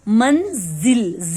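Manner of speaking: मंजिल drawn out very slowly, syllable by syllable; very slow spelling out. Shown as a demonstration. Teacher slowly spelling out मंजिल for children. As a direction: stretch मंजिल out slowly so each sound is heard. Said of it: "छोटी ई की मात्रा".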